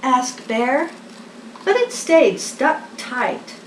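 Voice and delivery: lively picture-book reading; reading to children. A narrator's reading. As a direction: read it like a bedtime story for little ones.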